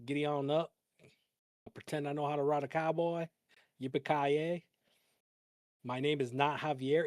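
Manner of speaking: lightly put-on Southern cowboy talk; Southern accent. Streamer passing himself off as a Southerner, mock Southern accent. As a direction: play at being a Southerner with a mild accent. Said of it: "pick up a Southern accent and be like".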